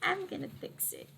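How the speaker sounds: high, soft character voice; small high voice. Acted. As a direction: say it high and quietly, playfully in character. Character voiced, echoing the line.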